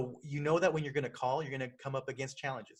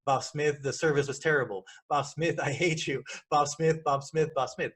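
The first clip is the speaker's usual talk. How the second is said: mock angry caller; 3 dB louder than usual. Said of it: "yelling at him".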